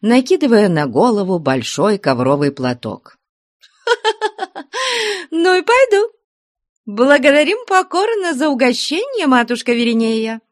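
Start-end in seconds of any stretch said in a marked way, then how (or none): 3.9-10.4 very high, giggling thanks; mock-polite laughing. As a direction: thank her with mock courtesy. Girl laughing, mock bow.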